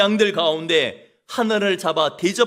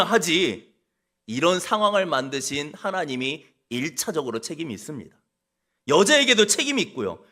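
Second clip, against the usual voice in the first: making excuses. Pretend. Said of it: "이렇게 핑계대지도 않았습니다".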